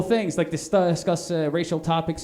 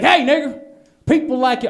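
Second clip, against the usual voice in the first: loud, higher jeering racist voice; mock racist; 6 semitones higher, 6 dB louder than usual. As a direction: shout it like a sneering bigot. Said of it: "they don't sound like that".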